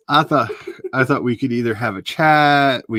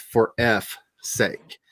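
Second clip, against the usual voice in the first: slow spelled-out phrase; much slower than usual. Shown as a demonstration. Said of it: "spelling it out".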